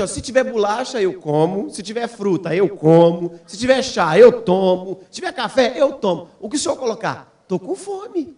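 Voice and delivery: lightly voiced pleading daughter; imitated hungry child. Voices hungry daughter listing foods.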